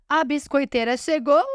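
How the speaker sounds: mock crazed yell. Podcaster imitates a contestant's entrance line, mock yell. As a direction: draw out the last word in a mild mock holler. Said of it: "E ela gritando, parecendo uma doida".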